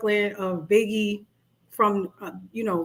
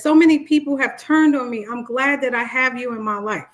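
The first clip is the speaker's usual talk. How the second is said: narcissist's line; 2 semitones higher, 4 dB louder than usual. Retold or imitated. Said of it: "the other one says".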